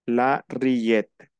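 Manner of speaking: la rillette, the ll said as a y, ree-yet, slow; French pronunciation. Shown as a demonstration. Teacher modelling French for Spanish speakers: la rillette, slow. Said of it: "La rillette es una entrada".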